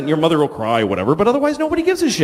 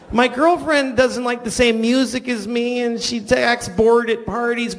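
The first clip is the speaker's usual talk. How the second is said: whiny single person; slower than usual. Retold or imitated. Mocking a single person's complaint.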